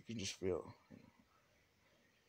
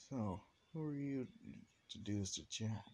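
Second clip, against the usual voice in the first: demanding question; 8 semitones higher, 4 dB louder than usual. Retold or imitated. Demanding the stranger's identity.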